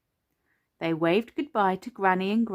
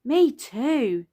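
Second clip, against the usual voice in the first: louder, higher hearty call; shouting back; 5 semitones higher, 5 dB louder than usual. A narrator's reading. Daddy Pig answering Peppa from afar, shouting back. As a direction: shout it back to match the excitement. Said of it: "Daddy Pig shouted back".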